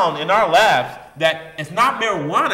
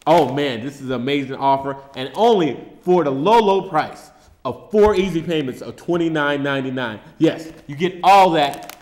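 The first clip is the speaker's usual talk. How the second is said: home shopping host; 2 semitones lower than usual. Acted. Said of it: "home shopping offer pitch".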